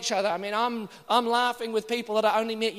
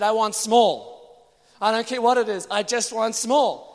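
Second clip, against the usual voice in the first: firm request; 2 semitones higher, 6 dB louder, slower than usual. Retold or imitated. Insisting to hosts on small meals.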